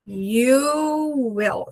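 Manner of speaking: You will with a long, drawn-out "You". Shown as a demonstration. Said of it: "Eu só fico um longo".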